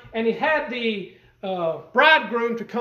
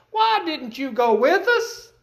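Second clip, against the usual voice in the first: worried mother; 6 semitones higher, 4 dB louder, slower than usual. Retold or imitated. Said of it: "a motherly talk to her son".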